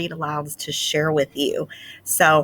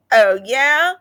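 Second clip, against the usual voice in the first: higher, louder taunting oh yeah; challenging retort; 6 semitones higher, 6 dB louder than usual. Acted. Clayton answering Desmond's boast, challenging. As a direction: throw the challenge back. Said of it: "said Clayton".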